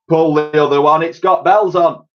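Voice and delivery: high loud scoffing shout; shout from below. A narrator's reading. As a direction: scoff up at the roof. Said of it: "came the shout from below".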